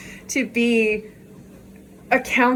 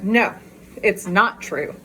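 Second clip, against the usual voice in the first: calm conclusion; slower than usual. Retold or imitated. After sitting with the message, calm and settled. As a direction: let it land calmly after thinking. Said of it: "sit with that".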